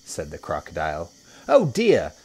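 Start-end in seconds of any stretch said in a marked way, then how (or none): 1.5-2.1 high, loud hippo dismay; Humpy Rumpy. A narrator's reading. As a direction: exclaim as a high-voiced hippo. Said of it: "said Humpy Rumpy".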